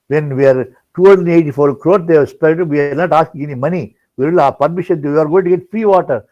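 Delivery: a touch of outrage at the decision; upset protest. Retold or imitated. Telling Swami about the chief minister, mildly indignant. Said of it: "I was a little upset".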